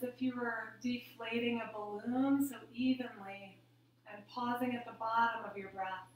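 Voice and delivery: calm, measured meditation cues; guided breathing meditation. Real, not acted. Yoga teacher leading the class's last breaths, calm meditative guidance. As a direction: guide each breath gently, leaving room between phrases.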